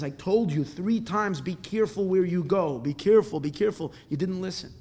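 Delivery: emphatic acted reproach; stern I-warned-you rebuke; scolding. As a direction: tell him off, hammering the key words. Rebbe scolds the returning man.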